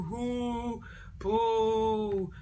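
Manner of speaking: a mocking "hoo, poo" sound effect; mock jeer noise. Shown as a demonstration. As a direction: add a jeering sound effect. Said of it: "I'm adding my own sound effects".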